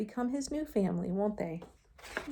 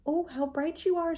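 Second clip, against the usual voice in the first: lightly voiced hermit crab; 8 semitones higher, 4 dB louder than usual. A narrator's reading. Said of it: "said Hermit Crab".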